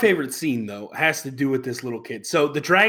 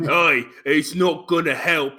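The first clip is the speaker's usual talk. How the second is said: mock English accent; slower than usual. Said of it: "or a Cockney English".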